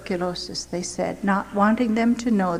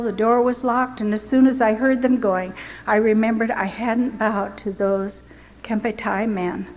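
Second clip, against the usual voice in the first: ordinary talk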